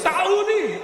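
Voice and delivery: Saudi yelped sharply high, like a hiccup; mock hiccuped sadi, jumping way up in pitch; imitating Saudi guy. Imitating the audience guy saying his country: a high hiccuping sadi.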